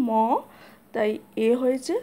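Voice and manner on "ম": ম as a drawn-out "mo"; sounded-out vowel. Shown as a demonstration. Teacher showing the vowel after the consonant, ম held long. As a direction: hold the "o" vowel in ম. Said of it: "একটা অ sound আসছে".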